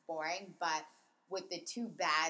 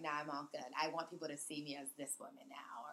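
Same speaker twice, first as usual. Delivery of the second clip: whispering; 2 semitones lower, 5 dB quieter than usual. Retold or imitated. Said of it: "Ramona's probably like".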